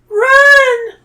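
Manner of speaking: high, piercing scream. A narrator's reading. Zoe fleeing the stone beast, scream. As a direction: scream it in panic. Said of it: "Zoe screams".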